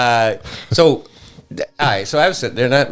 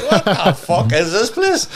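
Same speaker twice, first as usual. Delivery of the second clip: laughing disbelief; 10 semitones higher than usual. Retold or imitated. Retold shocked reaction at home.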